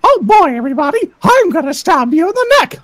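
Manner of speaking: lightly voiced cheery mouse threatening; a hint of a stalker Mickey; mock-sinister cartoon mouse; creepy Mickey Mouse voice. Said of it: "I used to do Mickey Mouse impressions".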